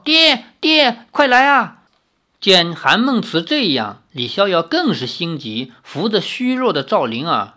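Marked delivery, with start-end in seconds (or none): 0.0-1.8 high, loud cry for father; alarmed shout for someone to come; urgent calling out. Acted. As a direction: call for help from another room. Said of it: "叫道".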